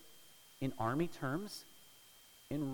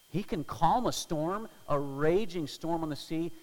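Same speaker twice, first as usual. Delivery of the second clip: fervent proclamation; 4 semitones higher, 9 dB louder than usual. Real, not acted. Preacher's rising proclamation.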